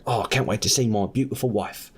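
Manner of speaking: put-on a lightly done, poor Australian accent; bad Australian accent. The guy heading home to his wife in a weak fake Australian accent. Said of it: "this is her worst Australian accent".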